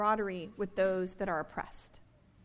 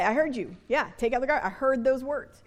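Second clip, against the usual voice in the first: put-on defensive child; faster than usual. Child's protest to mother.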